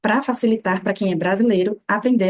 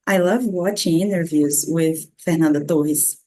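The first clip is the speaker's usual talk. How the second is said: English sentence, name in Brazilian Portuguese; slow English ending in a Brazilian-pronounced name; Brazilian-accented name; 2 semitones lower than usual. Shown as a demonstration. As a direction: switch to Brazilian accent for FERNANDA TORRES. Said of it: "como uma boa brasileira".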